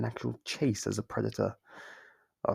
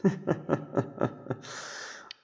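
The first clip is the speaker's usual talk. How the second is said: breathy laugh; 5 semitones higher than usual. Acted. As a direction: laugh as you slip away. Captor runs off to hide.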